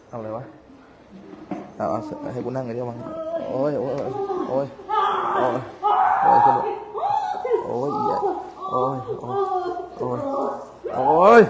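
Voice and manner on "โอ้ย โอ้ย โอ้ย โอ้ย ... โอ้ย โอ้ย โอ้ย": strained moaning cries rising to high shrieks; ghostly wails. Real, not acted. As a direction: wail like a tormented ghost. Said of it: "เสียงร้องแห่งพูดผีปีศาจ".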